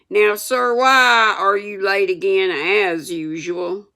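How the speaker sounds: teacher scolding Tom for lateness; stern scolding. Acted. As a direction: scold the late pupil. Schoolmaster scolds late boy.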